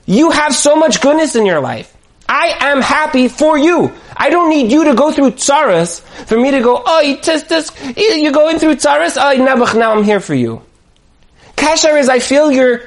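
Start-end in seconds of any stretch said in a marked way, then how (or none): 0.0-10.6 dengan suara riang dan bernada tinggi, penuh gembira; joyful exclamation. Pretend. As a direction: sampaikan kegembiraan yang tulus untuk orang lain. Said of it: "Why can't we say".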